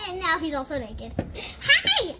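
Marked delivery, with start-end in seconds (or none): 1.6-2.1 Branch doll voice. Pretend. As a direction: voice the troll doll playfully. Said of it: "I'm Branch".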